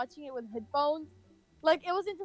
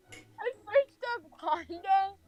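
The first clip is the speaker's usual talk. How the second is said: laughing; 5 semitones higher, 3 dB louder, much slower than usual. Real, not acted. Laughing at memory.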